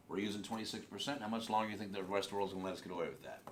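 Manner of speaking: fast, read straight off the page; rushed reading. Shown as a demonstration. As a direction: rattle it off like reading aloud. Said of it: "I started just reading".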